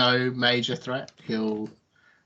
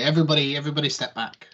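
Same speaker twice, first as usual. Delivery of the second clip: commanding military voice; 4 semitones higher, much faster than usual. Acted. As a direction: bark it like a commander. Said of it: "in his most commanding military voice".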